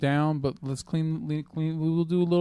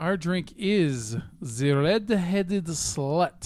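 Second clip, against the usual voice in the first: put-on, fake German accent. Announcing the drink of the day: put-on German voice. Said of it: "Why are you talking like that?".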